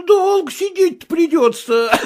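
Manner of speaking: high teasing reply with a laugh; mocking laugh. Footman mocking Vasilisa, laughing. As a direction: tease her and laugh.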